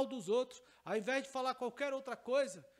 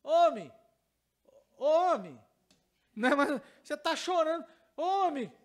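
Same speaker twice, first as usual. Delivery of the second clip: loud, lightly voiced curious child; a hint of a small boy tugging at a stranger; little boy asking; 5 semitones higher, 9 dB louder than usual. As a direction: call out like a puzzled little boy. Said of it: "e falou assim".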